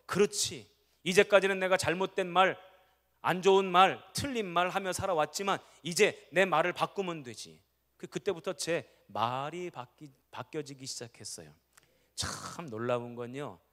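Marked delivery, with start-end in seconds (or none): 0.1-7.6 louder, a bright burst of resolve; eager realization. Retold or imitated. Pastor recalls his own answer to the Lord, eager. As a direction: exclaim it like a discovery. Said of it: "그 제가 그래서".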